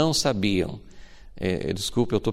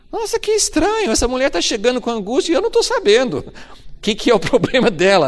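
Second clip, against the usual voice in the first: puzzled surprise; 12 semitones higher, 3 dB louder than usual. Retold or imitated. Prophet puzzled by unexpected news.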